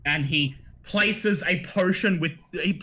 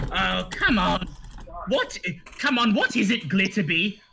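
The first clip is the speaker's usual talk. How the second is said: a hint of an annoyed wife gnome; lightly voiced female gnome; 4 semitones higher than usual. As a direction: grumble like a disturbed gnome wife. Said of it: "you hear female gnome say".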